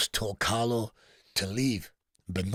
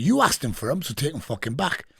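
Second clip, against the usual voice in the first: retold angry demand; 4 semitones higher, 4 dB louder than usual. Prison quarrel over the gloves.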